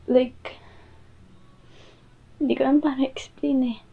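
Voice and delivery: fast, fading whisper; hushed voice. Acted. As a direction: whisper it, giving up on words. Partner at a loss for words.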